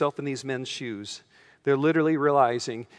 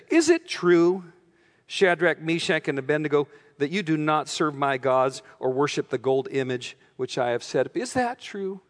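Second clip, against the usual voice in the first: angry king. Retold or imitated. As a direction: press them like a king barely holding his temper. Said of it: "And he, he said".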